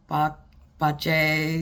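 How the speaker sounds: "pache" after a false start on "pa-"; alternate pronunciation. Shown as a demonstration. Speaker showing how people pronounce it differently, "pache" after a false start. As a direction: try "pa-", then say "pache" as another variant. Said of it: "A lot of people pronounce it different".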